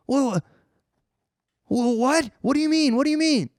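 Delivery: high, stammering bewilderment; confused. Retold or imitated. Caught peeing in the closet, stammering high confusion. Confused reply, just woken.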